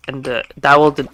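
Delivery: tripping over the words; stumbling over words, distracted by gaming; stuttering. Real, not acted. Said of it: "I'm stuttering like crazy".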